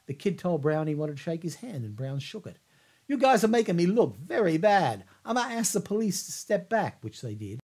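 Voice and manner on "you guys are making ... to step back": higher, louder reproach; raised scolding. Retold or imitated. Brown scolds the crowd, louder and higher. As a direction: scold them from the stage. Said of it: "Brown scolds the crowd".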